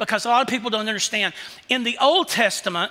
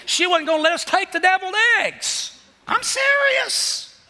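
laughing disbelief; 11 semitones higher than usual. Real, not acted. Preacher laughing at the story.

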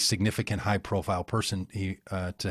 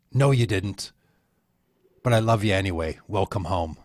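a light, bad Scottish brogue; half-hearted Scottish accent on a retold tale; terrible Scottish brogue. Retelling Phil's words in a mild Scottish brogue. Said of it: "so I'll do a terrible Scottish brogue".

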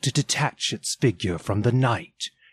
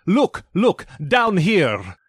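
much higher, loud urgent cries; exclaiming ghost; 9 semitones higher, 6 dB louder, slower than usual. Acted. Ghost forces Scrooge to see the children, loud high cries. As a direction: jab each look at him. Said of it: "exclaimed the ghost".

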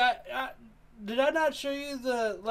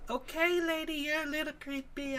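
put-on nervous kid voice; 7 semitones higher, 4 dB quieter than usual. Voicing the kid in movie.

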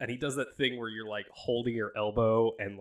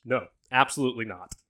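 firm refusal; 6 dB louder than usual. Acted. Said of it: "Zordon just goes".

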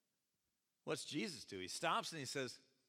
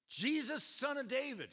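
yelling; 9 semitones higher, 5 dB louder than usual. Acted. Retelling the beggar's yelling.

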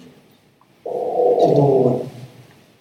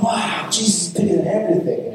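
higher, lightly mocked childlike amazement; naive wonder; 5 semitones higher than usual. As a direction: echo it like an awestruck little kid. Mimics naive wonder at the statement.

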